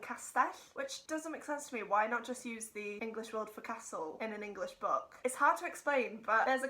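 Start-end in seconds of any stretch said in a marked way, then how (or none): 0.0-0.5 castell said the Welsh way, ending on a rise. Retold or imitated. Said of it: "they say".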